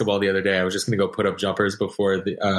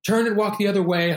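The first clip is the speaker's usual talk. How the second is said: mock bossy warning; 11 semitones higher than usual. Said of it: "and he was like".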